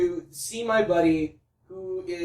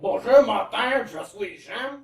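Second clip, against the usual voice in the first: mock Quebecois; slower than usual. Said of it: "the fake Quebecois".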